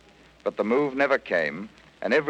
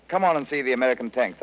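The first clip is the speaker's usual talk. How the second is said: a higher, mock shout, not full volume; mild retold shout; 4 semitones higher, faster than usual. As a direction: call them over, lightly raised. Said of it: "I shouted".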